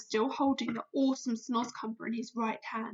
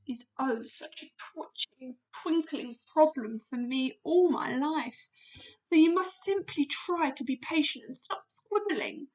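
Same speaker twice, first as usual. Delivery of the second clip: wistful giant; 4 semitones higher than usual. Acted. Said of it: "that sad, winsome look".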